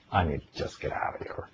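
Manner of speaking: hushed panicky whisper, barely voiced; panicked whisper. Retelling his panic attack to the audience, a frightened whisper.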